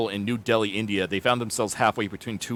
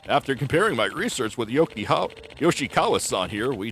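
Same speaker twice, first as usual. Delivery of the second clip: put-on proud old researcher; 2 semitones higher than usual. Yama-san voiced in game.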